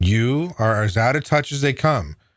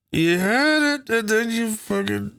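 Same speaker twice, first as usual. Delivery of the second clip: exasperated; 10 semitones higher, slower than usual. Retold or imitated. Retold reaction to AOC.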